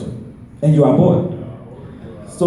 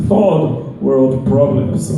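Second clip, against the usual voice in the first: slow punchline; 3 semitones lower, much slower than usual. Acted. Contrast punchline, slowed.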